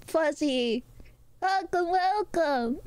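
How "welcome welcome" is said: high, drawn-out welcome; high-pitched impression of a friend's welcome; imitating her greeting. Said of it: "That is exactly how she says it".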